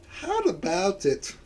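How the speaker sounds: attempted film heroine's Scottish voice; Scottish accent. Shown as a demonstration. Player trying the heroine of Brave, Scottish accent. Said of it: "I could try to do her voice".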